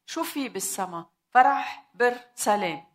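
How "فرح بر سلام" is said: exclaimed. Acted. Preacher proclaims heaven's joy.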